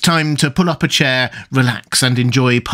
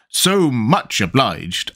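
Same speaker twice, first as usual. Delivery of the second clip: slow, drawn-out contrariwise; a lightly voiced know-all brother; Tweedledee's voice; much slower than usual. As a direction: savour the word like a know-all.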